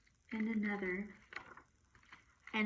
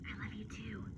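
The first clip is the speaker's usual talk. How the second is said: much softer, tender; soft whisper; 10 dB quieter than usual. A narrator's reading. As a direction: whisper love to the dog. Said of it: "she whispered".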